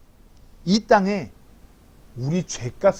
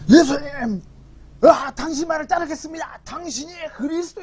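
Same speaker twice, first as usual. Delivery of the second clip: high, eager cry of devotion; eager disciple; 10 semitones higher than usual. Acted. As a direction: call out to Jesus like a zealous follower. Peter's eager vow acted.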